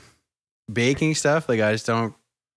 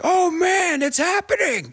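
surprised; slower than usual. Retold or imitated. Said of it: "you're like".

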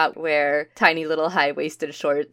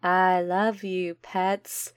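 creepy cooing; 3 dB quieter, much slower than usual. Retold or imitated. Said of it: "Everyone cooing and like".

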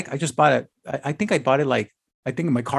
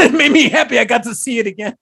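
laughing through the words; 4 semitones higher, 4 dB louder than usual. Real, not acted. To his friend, recalling the fast bike, laughing. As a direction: giggle it out, delighted.

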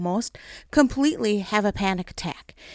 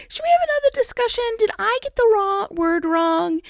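laughing; 12 semitones higher than usual. Real, not acted. Joking with God mid-prayer.

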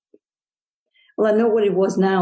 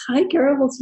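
cheery mailman greeting; 8 semitones higher than usual. Retold or imitated. Mailman greeting her daughters.

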